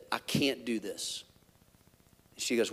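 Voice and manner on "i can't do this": soft, defeated admission; a hushed retold plea; quiet confession. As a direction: barely say it to your wife. Confessing panic to his wife.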